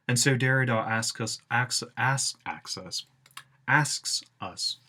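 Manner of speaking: hissing, whistled s sounds; whistling s. Real, not acted. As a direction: sibilants whistle on every s. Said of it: "sorry about the whistling".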